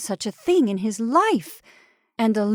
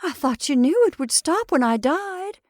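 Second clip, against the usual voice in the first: alarmed; 8 semitones higher, 3 dB louder than usual. Acted. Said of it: "in alarm".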